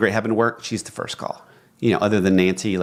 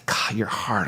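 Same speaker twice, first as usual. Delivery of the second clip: soft whisper; 5 dB quieter than usual. Shown as a demonstration. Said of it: "you just say".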